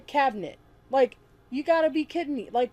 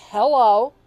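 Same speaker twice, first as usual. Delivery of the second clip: a much louder "Hello" that rises at the end; loud rising hello; 9 dB louder than usual. Shown as a demonstration. Showing viewers a third way to say hello, loud and rising. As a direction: push "Hello" out loud and lift it like a question. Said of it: "I just said hello three different ways".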